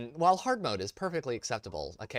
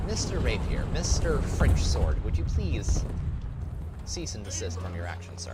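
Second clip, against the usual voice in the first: mock polite scold; 5 dB louder than usual. Scolding enemy tank politely.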